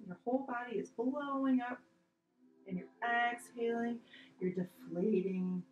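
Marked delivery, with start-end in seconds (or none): 4.5-5.6 drawn-out deflating. Shown as a demonstration. Mimics deflating while exhaling.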